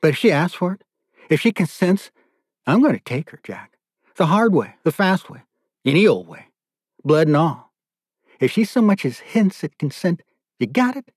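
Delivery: high-pitched, gloating captor; menacing captor. Acted. Captor setting terms for taking the daughter, gloating. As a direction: spell out the terms, pitch climbing to the final question.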